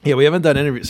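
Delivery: words around a sip of beer; talking between sips; drinking beer. Real, not acted. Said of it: "I'm, uh, drinking my beer".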